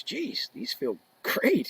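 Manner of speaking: imitating Messier. Voicing Messier trying skates.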